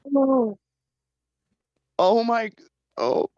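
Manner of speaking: real sob breaking through; real crying. Real, not acted. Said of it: "now I'm crying real bad".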